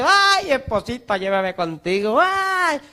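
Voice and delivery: slow hammed-up lament ending in a high cry; mock a widower's late grief; mock wailing widower. Pastor mocking a widower at the grave, hammed-up wailing. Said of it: "se le muere la esposa y".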